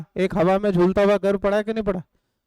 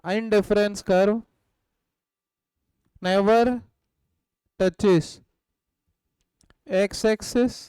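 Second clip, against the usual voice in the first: word by word, very slow, for note-taking; slow dictation; much slower than usual. Shown as a demonstration. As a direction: dictate each word slowly so students can write. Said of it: "आप ये heading लिखना". (धीमे-धीमे शब्द-दर-शब्द बोलकर लिखवाना)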